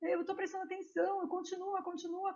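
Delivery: small, high, soft pleading voice; tiny voice. Acted. Unseen little fish begs the teacher to continue, tiny voice. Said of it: "começa uma vozinha a dizer".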